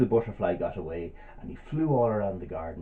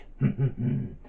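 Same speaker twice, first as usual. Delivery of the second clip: spider's sly chuckle. Acted. Spider's chuckle after invitation.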